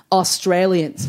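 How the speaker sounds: slow, drawn-out word of disdain; fed-up answer. Retold or imitated. Audience member naming who she's sick of, fed up. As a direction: stretch it out, sick of them.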